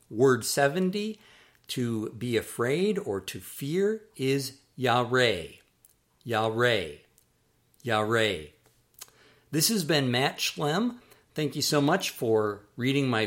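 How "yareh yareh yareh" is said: "yareh" as yah-RAY, falling at the end; pronunciation demo. Shown as a demonstration. Teacher models the verb to fear, careful pronunciation of "yareh" as yah-RAY. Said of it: "that is pronounced in Hebrew as".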